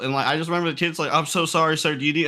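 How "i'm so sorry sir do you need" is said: higher, rushed imitation of an apologetic kid; mock frantic apology; flustered apology. Kid to the player he accidentally shot, flustered apology.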